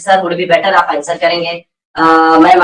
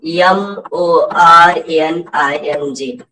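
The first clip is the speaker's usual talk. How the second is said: slow, letter-by-letter spelling; deliberate classroom spelling; spelled out slowly; 3 semitones lower, much slower than usual. Shown as a demonstration. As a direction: spell it out one letter at a time. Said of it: "आप जब यहाँ पर बोलते हो".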